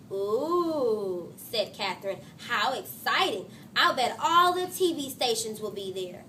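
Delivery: lively read-aloud to a class; story reading. A narrator's reading. Teacher reading a chapter book to her class, animated. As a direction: read the chapter with voiced characters.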